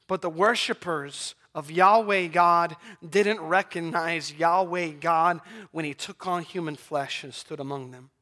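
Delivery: ordinary talk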